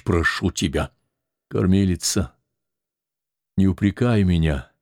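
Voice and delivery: ordinary delivery, nothing marked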